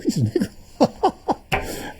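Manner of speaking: slow whispered repeat, almost secret; hushed whisper. Retold or imitated. Mother whispers to her son in church, slow hush. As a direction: whisper it slowly like a confided secret. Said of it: "Hush, son".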